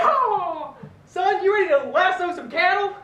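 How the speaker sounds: a hint of a hearty cowboy; lightly voiced rodeo father; cowboy dad.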